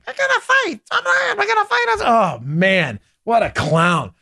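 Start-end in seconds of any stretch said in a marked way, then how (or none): 0.1-2.0 high-pitched de Blasio. Retold or imitated. Host mimicking the mayor's distorted voice, high and squeaky. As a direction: play it like a digitally sped-up tough guy. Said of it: "Bill de Blasio is just".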